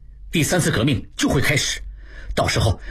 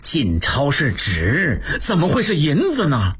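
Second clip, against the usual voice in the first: slow then rising urgency; worried protest; anxious; slower than usual. Acted. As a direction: prisoner anxiously objecting. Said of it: "望柏急了".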